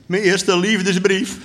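high, slow, moved wonder; a little choked up. A narrator's reading. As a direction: draw it out, mildly overcome. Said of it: "een beetje snofferig van alteratie".

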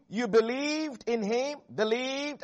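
"believed" stressed, then repeated on its own. Shown as a demonstration. Preacher drives the verse home to listeners, emphasis on "believed". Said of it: "Emphasis on the word believed".

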